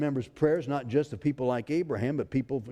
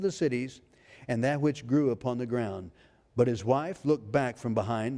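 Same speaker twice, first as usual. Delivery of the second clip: scripture reading. Acted. Reads scripture aloud.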